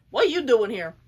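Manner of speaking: loud, put-on surprised question; mock startled demand. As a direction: act out barging in and demanding an answer. Villain bursts in, retold startled demand.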